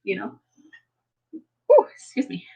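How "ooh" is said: sudden high hiccup yelp; a hiccup catches the voice. Real, not acted. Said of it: "I have the hiccups".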